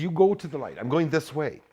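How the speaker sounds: high, loud and defiant; defiant shout. Retold or imitated. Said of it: "I says".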